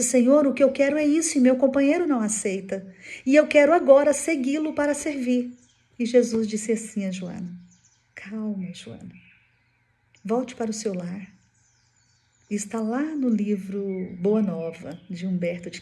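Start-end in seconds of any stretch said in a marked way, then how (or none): 0.0-5.5 retold earnest plea, higher and louder. Joana tells Jesus she wants to serve him, earnest plea. 8.1-11.3 softly voiced, gentle reassurance; calming. Jesus sends Joana back to her home, gently calming.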